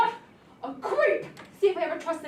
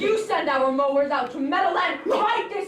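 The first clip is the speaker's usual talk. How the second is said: louder, insistent order; louder angry demand; 6 dB louder than usual. Acted. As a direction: order him, loudly. Daughter orders father in quarrel.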